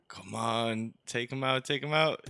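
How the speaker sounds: egging the shooter on, climbing each time; urging on. Real, not acted. Urging his teammate to take the enemy out, rising excitement. Cheering on a kill in game.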